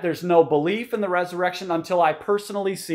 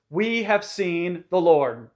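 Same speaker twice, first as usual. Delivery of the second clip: humble, understated; 2 semitones lower, slower than usual. Retold or imitated. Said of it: "not trying to hyper-dramatize".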